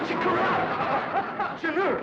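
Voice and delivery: loud, very slow high moan; stretched loud lament; dazed wail. Acted. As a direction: cry out as the spell lifts. Charm breaks, dazed wail.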